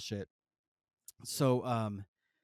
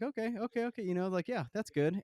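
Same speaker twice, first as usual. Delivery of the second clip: mock eager barista; 9 semitones higher than usual. Barista nodding along, high pitched.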